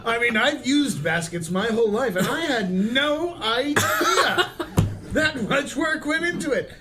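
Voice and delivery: pompous nobleman voice; haughty noble. Acted. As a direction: play the snooty noble. Lofty noble character voice.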